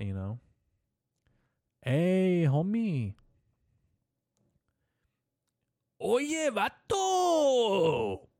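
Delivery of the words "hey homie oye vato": hammed-up Cholo accent, much higher and louder, squeaking up on Oye; over-the-top mock Cholo accent that breaks high. Host riffing on how Cholos talk, hammed-up Cholo accent. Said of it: "I feel like they say homie a lot".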